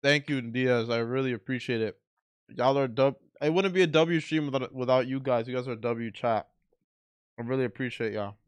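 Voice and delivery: eating while talking; talking through a mouthful; mouth full. Real, not acted. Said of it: "And I'm sorry I'm eating".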